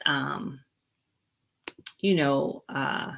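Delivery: usual speaking voice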